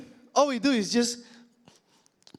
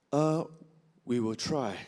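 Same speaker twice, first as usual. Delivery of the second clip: sheepish reply; 9 semitones lower, 5 dB quieter, slower than usual. Retold or imitated. Engineer's evasive reply.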